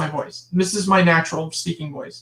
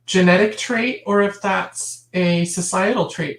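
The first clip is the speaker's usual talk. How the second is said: ordinary talk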